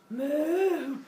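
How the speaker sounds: high, loud playful moo; cow moo. Acted. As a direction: moo like a happy cartoon cow. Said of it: "And the cow goes".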